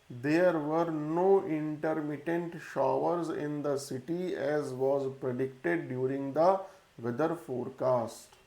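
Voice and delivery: reading a test sentence slowly and evenly for a class; slow dictation reading. Shown as a demonstration. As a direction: dictate it word by word so students can follow.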